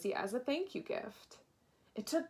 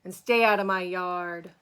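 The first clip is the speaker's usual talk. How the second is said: yelling; 2 semitones lower, 7 dB louder than usual. Acted. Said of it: "Hank yelled back".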